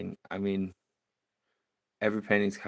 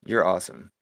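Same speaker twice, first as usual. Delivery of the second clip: ordinary delivery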